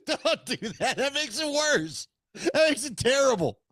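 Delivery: half laughing, half begging him to stop; laughing protest. Real, not acted. Laughing at his shave.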